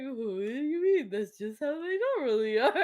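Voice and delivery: high, loud incredulous retort breaking into laughter; baffled protest. Retold or imitated. Defending family's tone to a friend, baffled protest. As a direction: laugh through a mock-bewildered objection.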